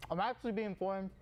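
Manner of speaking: talking with a mouth full of Pop-Tart. Real, not acted. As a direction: chew and talk at once, mouth full. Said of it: "don't eat with your mouth full".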